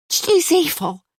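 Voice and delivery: high raspy accusing shout; wild woman at the door points and shouts. A narrator's reading. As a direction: jab the words out like an accusation. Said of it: "she's shouting".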